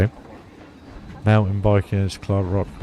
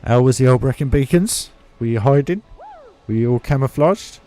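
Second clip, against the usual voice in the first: cheery greeting; 7 semitones higher, 5 dB louder than usual. Real, not acted. Greeting a friend in chat.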